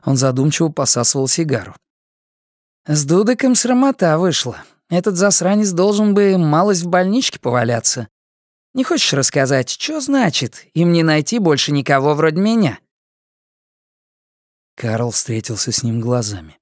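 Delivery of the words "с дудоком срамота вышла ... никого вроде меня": quoting не найти без нажима on НЕ; не найти said lightly, pensive; thoughtful inmate. Acted. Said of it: "уже не звучал глумливо".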